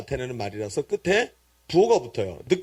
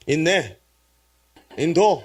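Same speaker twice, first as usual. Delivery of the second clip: terse Gyeongsang dialect phrases; 3 dB louder, slower than usual. Shown as a demonstration. Preacher shortens a request for belongings, in Gyeongsang dialect. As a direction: snap them out in Gyeongsang dialect. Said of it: "경상도 사투리로".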